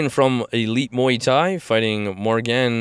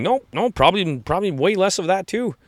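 higher, casual dismissive answer; imitating the fighter; 8 semitones higher than usual. The fighter telling a fan he trained less, offhand. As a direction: wave it away, amused. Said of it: "And you're like".

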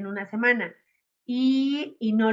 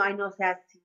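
flustered, defensive student voice; 3 semitones higher, faster than usual. Retold or imitated. Student caught out in front of the patient, flustered mock excuse. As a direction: play the embarrassed student excusing herself. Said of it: "y tú así enfrente del paciente como diciendo".

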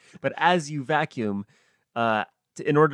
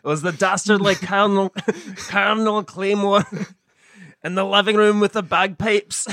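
mystery accusation; 6 semitones higher, 5 dB louder than usual. Pretend. Cluedo-style murder reveal.

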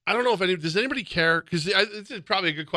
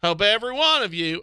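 nasally Larry the Cable Guy; 7 semitones higher, 4 dB louder than usual. Pretend. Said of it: "nasally version of Larry the Cable Guy".

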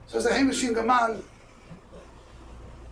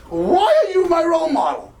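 retold plea, pitched way up and pushed; pleading demand; 10 semitones higher, 7 dB louder than usual. Puzzled student confronting the man in shul, pleading demand.

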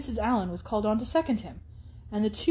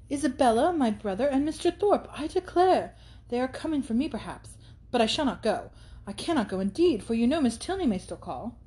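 put-on excited young heroine; 4 semitones higher than usual. Catherine speaks to Mrs Allen.

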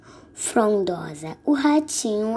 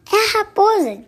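mouse voice; 11 semitones higher, 5 dB louder than usual. Acted. Mouse announces fox, high.

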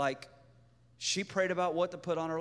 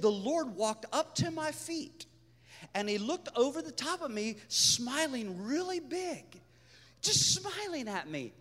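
high, soft imitation of her account; wonderstruck retelling; 5 semitones higher, 4 dB quieter than usual. Woman telling what the Lord said, wonderstruck retelling.

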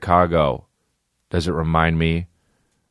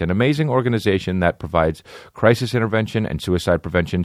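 brisk sponsor read; host reading his sponsor spot. Acted. Host reads the sponsor ad to listeners, brisk ad read.

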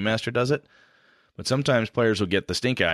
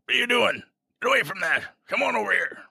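put-on high hunched old crone; 10 semitones higher than usual. Shown as a demonstration. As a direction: croak it out like a bent old crone. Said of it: "when I've done the old crone voice".

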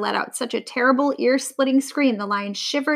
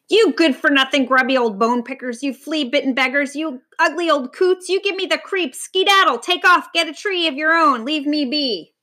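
raised voice; 4 semitones higher than usual. Acted. The old lion yells insults to drive the vultures off. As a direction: let the birds have it. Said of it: "Raising his voice to a rumble".

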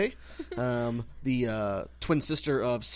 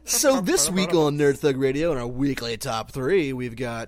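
radio voice. Pretend. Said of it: "What is that voice?".

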